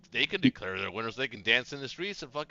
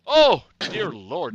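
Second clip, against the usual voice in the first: shrieking jackpot winner; 8 semitones higher, 12 dB louder, much slower than usual. Real, not acted. Big dice result.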